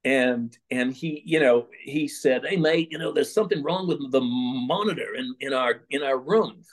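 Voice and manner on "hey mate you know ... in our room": a hint of a badly faked English accent; terrible English accent. Rock star asking page about broken monitor, rough attempt at English accent.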